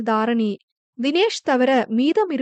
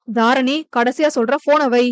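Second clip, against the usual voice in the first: last warning. Acted. Husband on the phone warns his wife with a final firm order. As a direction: cut her off with a last warning.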